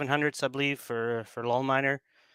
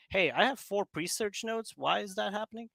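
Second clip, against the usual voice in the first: imitating a puzzled user, pitched much higher; higher, softer voice for a retold question; 10 semitones higher, 4 dB quieter than usual. Node runner asking why they have four nodes, puzzled. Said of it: "I often had the question like".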